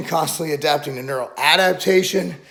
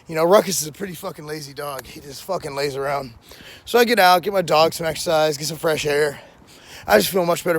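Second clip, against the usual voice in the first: talking funny after biting his tongue; bitten tongue. Real, not acted. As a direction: speak around a sore bitten tongue. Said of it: "I'm talking funny 'cause I sparred this morning".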